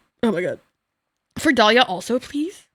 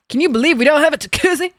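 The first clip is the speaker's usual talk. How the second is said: higher, mocking the clip; mock-whiny "Can you believe" line; mock whiny quote; 4 semitones higher, faster than usual. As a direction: parrot the rich complaint, amused. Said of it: "repeats the clip line".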